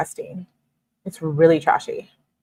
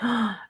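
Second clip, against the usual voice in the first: gasp; 5 semitones higher, 9 dB quieter than usual. Real, not acted. Reacting while reading the texts.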